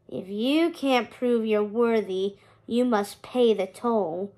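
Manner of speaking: slow, lightly voiced unbothered skeleton; calm, unhurried ferryman, a hint of dusty bones; unperturbed skeleton. Skeleton ferryman demanding a toll from Hector, slow and unbothered. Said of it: "the skeleton continued unperturbed".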